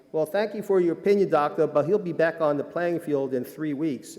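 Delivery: lightly mocking Southern-accented brush-off; bad Southern accent. Trainer dismissing the new doctor's opinion, bad Southern accent. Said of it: "Sorry, bad Southern accent".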